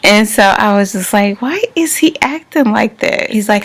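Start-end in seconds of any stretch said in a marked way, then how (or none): 1.4-3.3 high-pitched, puzzled wondering; bewildered inner cry. Retold or imitated. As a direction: retell your bafflement in a high voice. Retells her bewildered inner reaction.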